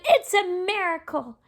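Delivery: loud amazed cheer; shouting. Acted. Animals cheering Gerald's dance, loud amazed shout. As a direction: cheer him on in wonder. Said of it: "They shouted".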